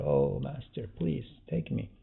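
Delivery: gently acted supplication, softly voiced; begging. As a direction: beg softly, as a humble plea. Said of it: "starting to beg the master".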